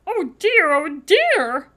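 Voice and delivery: high, loud worried elf voice; fretting elf. A narrator's reading. Nervous elf Mister Pudding fretting over Sophie, high and loud. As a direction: flap about like a nervous little elf.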